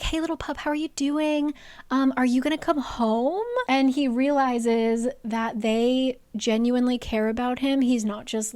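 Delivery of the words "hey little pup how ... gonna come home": light, higher gentle calling; caring greeting. Retold or imitated. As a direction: coax him home kindly. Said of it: "They're like".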